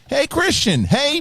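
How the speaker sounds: high, excited fan's shout of greeting; imitating an eager fan hailing someone; fan calling out. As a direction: call out brightly to someone you recognize.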